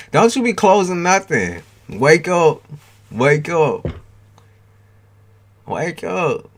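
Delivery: loud, high yell to wake her; shouting at the screen. Real, not acted. Yelling at the horror movie.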